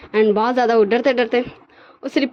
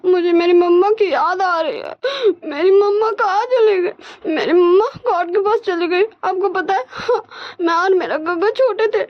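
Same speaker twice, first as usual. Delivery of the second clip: put-on childlike sobbing, higher; crying; 6 semitones higher than usual. Grown man crying to his boss like a child. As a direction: weep like a little boy missing mama. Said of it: "wing रोने लगता है".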